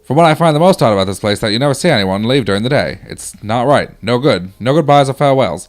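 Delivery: put-on old-timey soldier reading his letter aloud. Hospital patient's letter read out on request, old-timey voice. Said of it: "Give me an old, old-timey".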